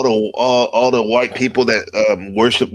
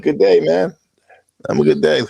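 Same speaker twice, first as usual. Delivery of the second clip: light Australian twang, pitched up; Australian accent; 4 semitones higher than usual. Shown as a demonstration. Telling people good day, in a light mock Australian accent. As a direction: greet like an Aussie, hamming it a little. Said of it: "I tell people, like".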